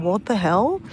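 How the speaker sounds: crying out. Retold or imitated. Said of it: "bawling my eyes out".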